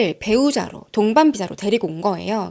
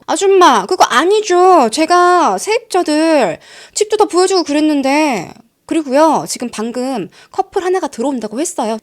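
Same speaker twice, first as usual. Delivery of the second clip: angry pushback; 4 semitones higher, 6 dB louder than usual. Retold or imitated. Tenant fighting back at the landlady, loud and indignant. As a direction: hit back hard, dragging the words out. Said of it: "너무 막 화가 나가지고 반격을 한 거예요, 이런 식으로".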